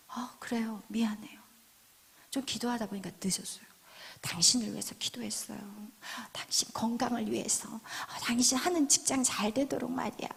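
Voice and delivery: soft, low, placating wife; gentle apology. Acted. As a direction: soothe an angry husband quietly. Wife answers nagging husband gently. (낮고 부드럽게 달래는 아내 말투)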